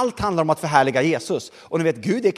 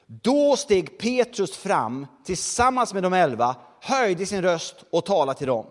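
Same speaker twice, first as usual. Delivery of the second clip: slow scripture reading; slower than usual. Shown as a demonstration. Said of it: "en av de verser jag älskar mest".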